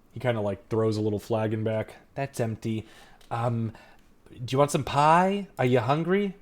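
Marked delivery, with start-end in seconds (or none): 2.2-6.3 halting host, lifting into the offer; lightly voiced hospitable dad; father character. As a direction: offer food as a fumbling dad. Father offering leftover food.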